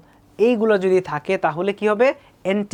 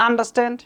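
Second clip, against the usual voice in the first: UNderstand, higher pitch with stress on Un; first-syllable stress; 4 semitones higher, much slower than usual. Shown as a demonstration. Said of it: "এটা আপনি কীভাবে বলবেন?". (Understand-এর প্রথম সিলেবলে জোর)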